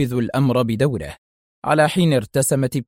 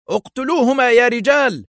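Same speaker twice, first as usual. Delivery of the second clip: much higher, loud kill command; shouted order; 11 semitones higher, 3 dB louder than usual. A narrator's reading. Dillon shouts to his men to kill them both. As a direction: bark the order to the gunmen. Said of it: "هتف فيها ديلون".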